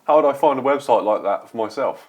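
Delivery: casual put-on Australian accent in a sponsor read. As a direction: ask it like a jokey Aussie ad voice. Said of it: "Why are you speaking in an Australian accent?".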